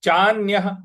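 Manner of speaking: चान्यः ending in a breathy ह sound; visarga as ha. Shown as a demonstration. Teacher demonstrating visarga sound, final ह. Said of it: "उसका उच्चारण हमको ह ले आना है".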